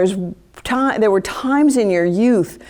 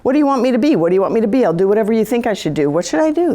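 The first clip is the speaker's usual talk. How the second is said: eager people-pleasing; 3 semitones higher, much faster than usual. Acted. Acted people-pleaser pleading for direction.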